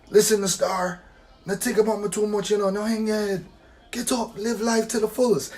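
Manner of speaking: a hint of a patois elder giving advice; grandpa's Jamaican voice. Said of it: "He would have said".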